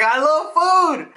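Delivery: high, loud, drawn-out cheer; hammed-up, slow excited shout; gleeful kid yell. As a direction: blurt it out like a food-crazy kid. Kid blurting out, retold.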